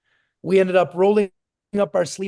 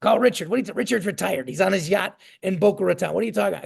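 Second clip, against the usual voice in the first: lightly voiced raspy old Italian guy; faster than usual. Old friend balking at calling a retired man, imitated raspy incredulity. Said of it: "My old Italian guy, raspy voice".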